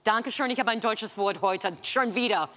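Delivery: ordinary talk, nothing marked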